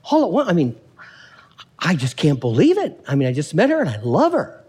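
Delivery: lightly acted lovestruck disbelief; smitten simple guy. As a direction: play him a touch amazed at himself. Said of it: "But if you asked him, he'd say".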